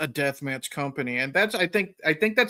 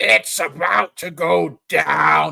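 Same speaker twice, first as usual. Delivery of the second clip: very slow, loud, drawn-out raspy announcer voice; 6 dB louder than usual. Mimicking the other speaker's main-event announcing, raspy razor-blade voice. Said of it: "you get that raspy razor blade voice".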